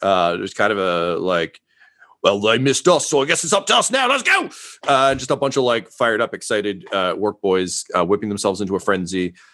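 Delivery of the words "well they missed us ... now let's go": jovial orc battle shouting, higher pitch. Voicing orcs charging into battle: jovial orc shouts. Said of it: "occasional shouts of almost joviality".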